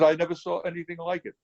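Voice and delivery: high-pitched mimicked Austrian accent. Friend marvels at the skittered caddis trick, mimicked Austrian accent. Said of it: "in this great Austrian accent".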